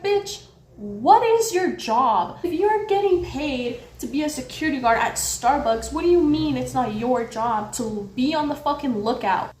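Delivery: mildly heated retold confrontation; indignant. Telling off the guard who refused to help, indignant. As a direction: challenge him in mock-indignant disbelief. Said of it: "I get so fucking mad".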